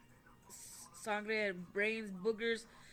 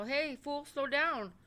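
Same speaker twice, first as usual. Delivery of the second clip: higher, louder mock yell; imitated shout; 6 semitones higher, 5 dB louder, much slower than usual. Passenger yelling at the driver before the crash, imitated shout. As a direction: retell a shouted warning to slow down.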